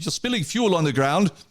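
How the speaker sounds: put-on German-accented English. Retelling what a man said while the speaker filled his car: German accent. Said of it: "a guy with a German accent says".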